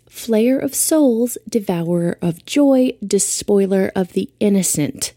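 grand proclamation. Acted. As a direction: declaim each title with pride. Reciting her titles.

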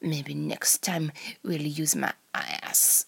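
put-on slow, low Russian accent slipping on "ass"; soft Russian accent that misses on the last word; fumbled Russian accent. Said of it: "I can't say ass in a Russian accent".

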